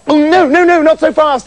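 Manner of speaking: loud high exclamation; exclaiming. A narrator's reading. Boy stalling the spirit, loud exclaim. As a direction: cut in quickly. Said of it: "he exclaimed".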